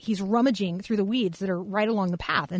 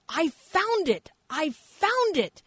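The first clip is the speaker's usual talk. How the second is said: higher, slow, imitating an elated boy's shout; mock joyful yell; 8 semitones higher, slower than usual. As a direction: replay the kid's triumphant cry, hammed-up. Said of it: "screaming at the top of his lungs".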